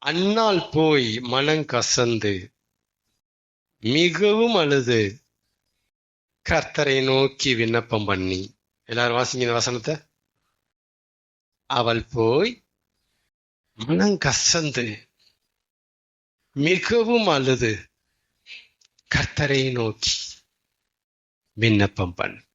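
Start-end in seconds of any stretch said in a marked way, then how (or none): 0.0-8.5 scripture reading. A narrator's reading. 11.6-22.5 scripture reading. A narrator's reading.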